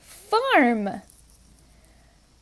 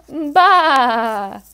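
bleat; 4 dB louder than usual. Retold or imitated. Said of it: "Can you make a sheep sound?".

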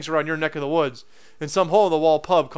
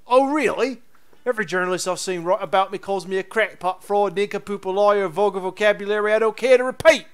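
indignant Cockney professor; Cockney grumble, building to indignation; Cockney accent. Acted. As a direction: play an affronted professor in Cockney. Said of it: "Now the Cockney accent works".

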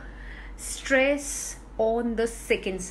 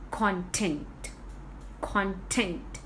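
content as CON-tent, first syllable stressed; 3 semitones lower, 5 dB quieter, slower than usual. Shown as a demonstration. Teacher explaining the word for reading material, content stressed on CON. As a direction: put the weight on CON in content. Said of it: "stressing on the first".

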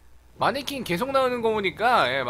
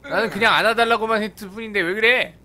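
mock hurt whine; 2 semitones higher, 6 dB louder than usual.

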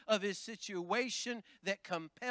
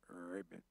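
mock frog ribbit; 16 dB quieter than usual. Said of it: "He don't go".

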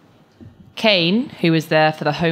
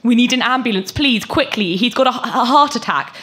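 urgent, much higher and louder; 9 semitones higher, 6 dB louder than usual. Acted. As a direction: plead for help in panic. Cam begging bot for ambulance.

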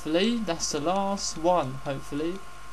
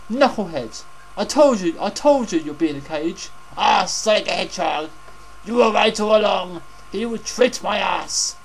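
hammy villain rant; 4 dB louder than usual. Pretend. Voicing Eggman to Knuckles.

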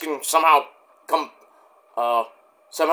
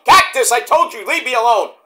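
annoyed Cherry; 4 semitones higher than usual. Acted. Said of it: "Mick Foley impersonation".

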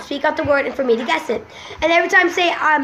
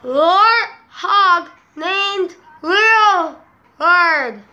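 laughing while repeating; much slower than usual. Real, not acted. Repeating, laughing through mouthguard.

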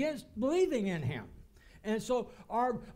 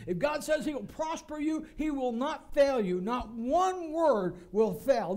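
forceful preaching; 3 semitones higher, 4 dB louder than usual. Real, not acted. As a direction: preach the promise with conviction. Preaches God's unfailing promises with force.

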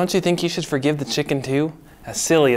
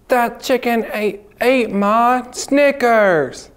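upset outburst; 7 semitones higher, slower than usual. Acted. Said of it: "I'm so sad and kinda angry".

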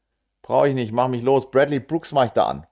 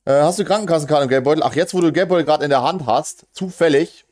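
higher, quicker voice of a wife asking; imitated wife; 5 semitones higher than usual. Wife walks in asking for wallet and card, imitated higher. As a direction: act out the wife coming in with a request. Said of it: "so kommt die Frau rein".

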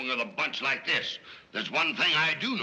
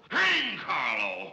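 exasperated outburst; 2 semitones higher, much slower than usual. Acted. Fed-up father curses the protégé.

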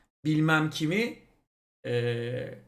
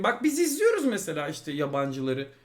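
ordinary delivery

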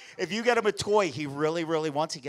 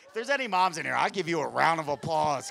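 ordinary delivery

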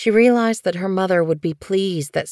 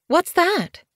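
curious query; 14 semitones higher than usual. Acted. Leopardfoot peering from her nest.

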